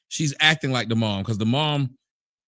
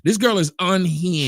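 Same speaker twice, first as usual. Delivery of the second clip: pushed louder for the muted mic; louder repeat; 6 semitones higher, 4 dB louder than usual. Real, not acted. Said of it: "your microphone muted".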